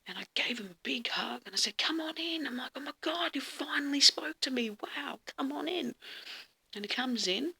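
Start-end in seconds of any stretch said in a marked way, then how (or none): 1.8-6.0 retold delight. Retold overjoyed welcome of visitor.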